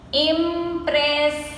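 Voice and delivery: "Impressive" split as im-pres-sive; three long, separate beats on "Impressive"; slowly broken up. Shown as a demonstration. Teacher counting three syllables, "Impressive" slowly broken up. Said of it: "we say it slowly and we break the word".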